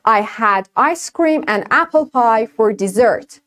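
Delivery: I had ice cream for dessert, each word spoken very slowly; very slow demo. Shown as a demonstration. Teacher slowly reads the example to the class. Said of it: "For example".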